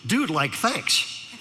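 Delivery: slow, drawn-out mock Valley-dude talk; Valley teenager. Speaker answers teen in his language, slow Valley drawl. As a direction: borrow a Valley kid's lingo, slowly. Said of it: "decided to use his language".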